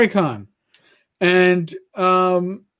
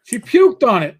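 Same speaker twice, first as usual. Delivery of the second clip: louder, higher imitation; retold calling voice, pitched up; Rach's voice; 4 semitones higher, 6 dB louder than usual. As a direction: lightly mimic someone announcing bad news. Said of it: "when I hear Rach go".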